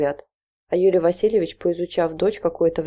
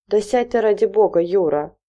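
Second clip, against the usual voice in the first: a wife barking at her pacing husband; sharp call; 3 semitones higher, 4 dB louder than usual. Acted. Wife to restless husband: sharp scolding call. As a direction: snap at him to sit down, louder. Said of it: "прикрикивала Галина Семёновна".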